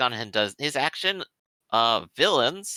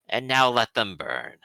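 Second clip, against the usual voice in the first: deep voice; 3 semitones lower than usual. Acted. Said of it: "you will hear the deep voice go ahead and say".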